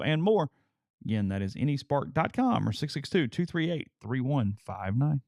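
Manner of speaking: upbeat radio ad voice; ad read. Acted. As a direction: sell the broadband package, bright and clear. Sponsor ad read.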